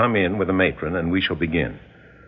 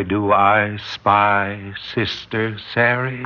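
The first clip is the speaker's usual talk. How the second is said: slow sing-song; slower than usual. Acted. Hypnotist calling out alter personality.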